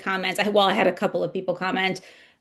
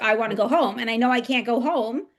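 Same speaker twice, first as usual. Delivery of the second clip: pleading; 4 semitones higher than usual. Retold or imitated. Pleading to leave Earth.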